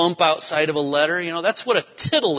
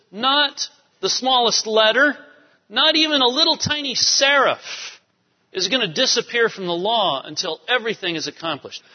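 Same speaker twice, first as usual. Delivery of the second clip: emphatic quote; 5 semitones higher than usual. Retold or imitated. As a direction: preach it with full emphasis. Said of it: "And Jesus says".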